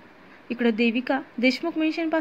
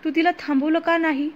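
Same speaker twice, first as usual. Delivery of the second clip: crying plea; 3 semitones higher than usual. Acted. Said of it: "आजी रडत म्हणाल्या".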